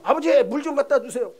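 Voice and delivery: loud, high call of a lazy son; filho folgado. Acted. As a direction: call out brattily to your father. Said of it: "아주 못되게 구는데".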